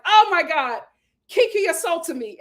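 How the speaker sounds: hammed-up cry of being wronged; mock outcry. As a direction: play the outraged accuser. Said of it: "Lisa is screaming assault".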